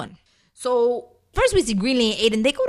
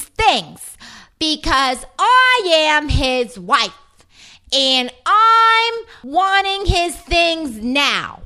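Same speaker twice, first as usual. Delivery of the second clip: bad, slow Brooklyn accent, higher; 6 semitones higher, 4 dB louder, much slower than usual. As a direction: ham up a fake Brooklyn accent. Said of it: "the worst fake Brooklyn accent".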